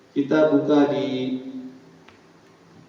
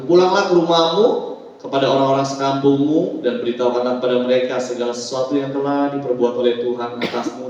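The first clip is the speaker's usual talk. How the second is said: projected Bible reading for a congregation; formal recitation, settling at the end; scripture reading; 2 semitones lower than usual. Acted. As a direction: read the verse out clearly. Pastor reads scripture aloud.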